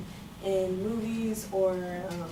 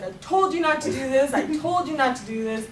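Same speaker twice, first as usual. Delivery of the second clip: mock scolding yell, pitched up; mom yelling; 5 semitones higher, 3 dB louder than usual. Mom scolds her injured child, half-yelled imitation. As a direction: imitate an angry mom telling someone off. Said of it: "she's yelling at me".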